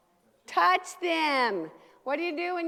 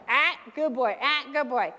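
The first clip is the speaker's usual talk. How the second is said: put-on loud sharp "Ah" then a pleased "good boy"; firm marker then praise; 6 dB louder than usual. Shown as a demonstration. Trainer showing the class how to correct the dog, loud. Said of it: "demonstrating the marker on the dog".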